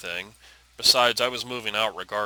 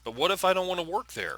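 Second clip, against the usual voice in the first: higher-pitched, questioning protest; anxious pushback; 8 semitones higher than usual. Acted. Daughter pushing back against her father's job plan, anxious protest. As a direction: say it out, higher and unsure. Daughter repeats after mumbling rebuke.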